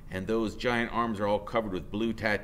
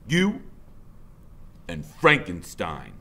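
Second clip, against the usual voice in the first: mocking biker; 3 semitones lower, slower than usual. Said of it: "he says, looking up at Freak".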